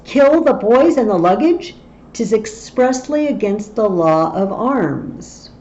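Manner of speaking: a mild outraged captain; outraged Fluellen. Acted. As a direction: read it as a scandalized soldier. Lecturer voicing outraged Fluellen.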